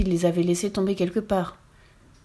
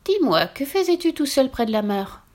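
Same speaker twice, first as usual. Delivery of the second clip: witch voice; 5 semitones higher than usual. Acted. Witch asks rabbit gently.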